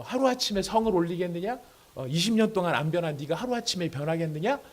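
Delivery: mildly sneering rhetorical questions; acted mockery. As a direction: scoff at someone claiming to change overnight. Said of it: "이런 비웃음을 가질 수 있다는". (살짝 비웃으며 따지는 말투)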